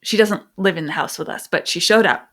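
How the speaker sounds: ordinary talk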